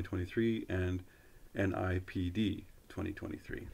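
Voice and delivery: measured, fluent announcement reading; formal read-aloud. Real, not acted. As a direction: read it out like an official notice, phrase by phrase. Reads a government web page aloud.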